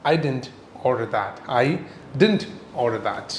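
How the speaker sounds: soft, simple, polite; polite and courteous. Shown as a demonstration. Teacher showing students a courteous restaurant reply, soft and polite. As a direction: say it gently and courteously. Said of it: "സിമ്പിളായിട്ട് courteous ആയിട്ട് പറയുക".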